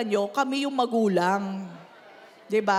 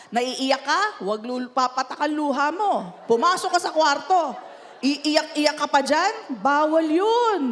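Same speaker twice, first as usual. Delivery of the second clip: mock stern parent. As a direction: forbid the child to cry. Parent voiced scolding crying child.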